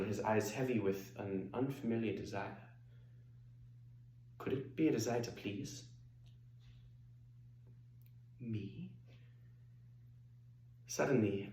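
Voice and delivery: theatrical confiding cabaret monologue; Hedwig, sly storytelling diva. Acted. Singer recounting meeting Luther, sly and confiding.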